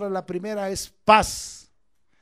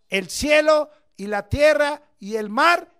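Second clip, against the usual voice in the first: shouted verse, high and loud; shouting; 6 semitones higher, 7 dB louder than usual. Acted. Preacher shouting Scripture to his flock. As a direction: cry it out to the congregation.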